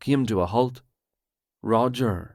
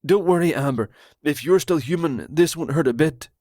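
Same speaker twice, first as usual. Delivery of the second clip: higher, louder, fast conspiracy rant; paranoid Roger; 4 semitones higher, 4 dB louder, faster than usual. Acted. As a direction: blurt it out like a betrayed friend.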